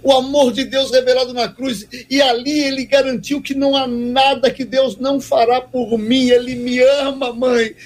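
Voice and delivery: a touch of tearful breaking joy; retold weeping. Son crying to his mother about the cross, overwhelmed. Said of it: "E aí, chorando, ele dizia".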